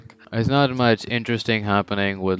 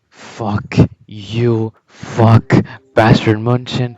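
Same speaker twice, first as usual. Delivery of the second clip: furious rebel turning on his own team; angry outburst; slower than usual. Retold or imitated. Kaiser snaps, cursing everyone.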